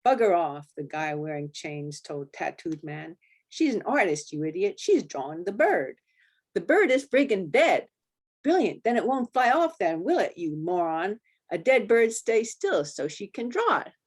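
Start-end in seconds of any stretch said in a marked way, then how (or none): 0.0-0.7 loud British snap at a mate; British biker telling off. Acted. Biker scolds his mate. 3.5-13.9 loud and higher, exasperated British; angry British biker. Acted. Bikers quarrel over the artist.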